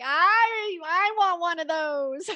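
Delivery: high, loud, drawn-out wail of wanting; hammed-up envious plea, laughing at the end; exaggerated longing. Host voicing all the listeners envying that husband, exaggerated longing. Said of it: "people out there are like".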